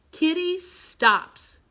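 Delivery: slow read-along. Shown as a demonstration. Teacher leads pupils through picture number four, slowly. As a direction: stretch both words for young readers.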